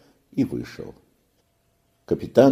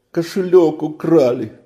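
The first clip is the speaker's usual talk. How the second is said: put-on panicked boy; 9 semitones higher, 5 dB louder than usual. A narrator's reading. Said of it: "судорожно сглотнул он".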